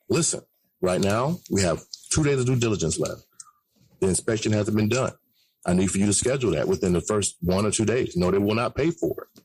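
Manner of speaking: calm low announcer read; smooth radio-host delivery. Shown as a demonstration. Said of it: "You have to give that A M radio voice".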